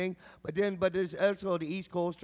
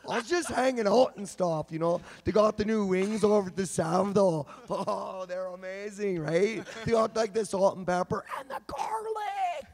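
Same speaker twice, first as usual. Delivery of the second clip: Kelowna dialect. Retold or imitated. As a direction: talk like the kid at the Rutland seven eleven. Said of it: "It's like".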